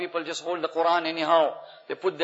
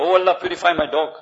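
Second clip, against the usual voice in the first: mock mistaken prayer; 5 dB louder, faster than usual. Shown as a demonstration. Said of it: "You can't say that".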